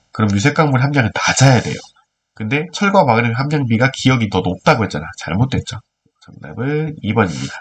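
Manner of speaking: nasal voice from a cold; talking through a stuffy nose; blocked nose. Real, not acted. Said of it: "코맹맹이 소리로". (코맹맹이 소리)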